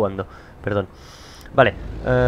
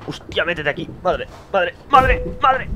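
alarmed cries climbing in pitch; rising alarm; 6 semitones higher than usual. Real, not acted. Player panicking as he steers in the game, rising alarm. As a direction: build from worried muttering to high-pitched panic.

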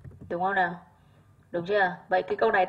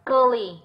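curly stressed on "cur"; first-syllable stress; 3 semitones higher than usual. Shown as a demonstration. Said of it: "âm một". (nhấn âm tiết đầu của curly)

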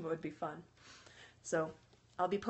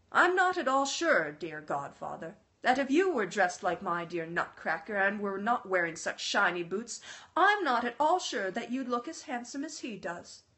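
gravely. Acted. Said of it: "she said very gravely".

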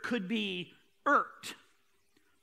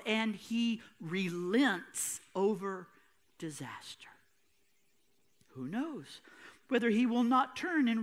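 scripture reading. Acted. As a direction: read the call to return gently, letting it die away. Reads Joel passage aloud.

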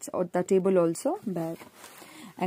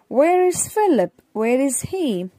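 dramatic question; 6 semitones higher, 5 dB louder than usual. Acted.

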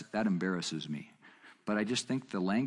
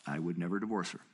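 lower, matter-of-fact reply; settled retold answer; 4 semitones lower, 3 dB quieter than usual. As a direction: answer calmly, letting the pitch drop. His own firm answer to questioner.

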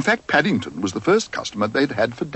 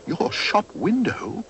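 high, slow, surprised echo; much higher, startled bear; surprised repeat; 9 semitones higher, slower than usual. Acted. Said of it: "repeated Paddington".

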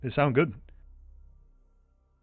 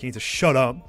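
angry; 4 semitones higher than usual. Real, not acted. Angry rant at teammate.

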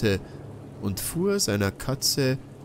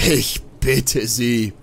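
scoffing; 6 dB louder, slower than usual. Acted. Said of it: "höhnte der Alte".

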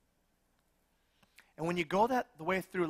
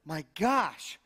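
grudging self-talk; 3 dB louder, much slower than usual. Retold or imitated. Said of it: "I just thought".

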